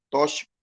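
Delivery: tóxico said with a sh sound, tó-shi-co; mispronounced tóxico. Shown as a demonstration. Teacher imitating a learner's wrong tóxico. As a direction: soften the x in tóxico to sh. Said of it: "tem dificuldade de falar tóxico".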